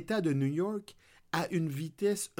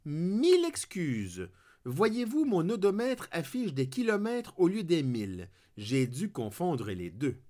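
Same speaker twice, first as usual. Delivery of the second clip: exaggerated French accent. Driver charming the trooper with an exaggerated French accent. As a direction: lay the French accent on thick to play innocent. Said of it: "en exagérant mon accent français".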